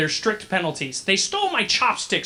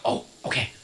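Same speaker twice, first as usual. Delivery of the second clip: dumbfounded; 10 semitones lower, 6 dB quieter than usual. Retold or imitated. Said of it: "they're like".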